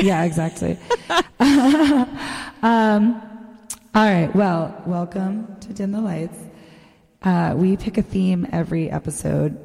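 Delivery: echoing voice with reverb; cave echo. Real, not acted. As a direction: talk in a big empty cavern. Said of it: "distracted by my vocal effect".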